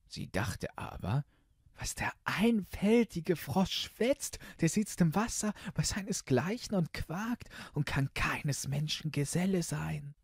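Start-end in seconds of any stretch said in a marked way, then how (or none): 1.8-10.1 put-on high girlish voice, thinking aloud; scornful princess. Princess thinks the frog is silly, high and scornful. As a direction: scoff privately as the storybook princess.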